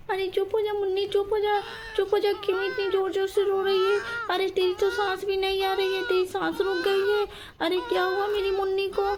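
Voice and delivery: put-on rising alarm as she hushes the choking baby; high, urgent pleading to the crying baby; panicked mother. Mother frantically soothing her choking baby, panicked.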